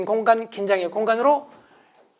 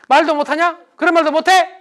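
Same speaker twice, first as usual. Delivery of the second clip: higher and louder, offended; indignant retort; 5 semitones higher, 6 dB louder than usual. Retold or imitated. Wife retorting to husband, loud and offended. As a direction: snap it back hurt.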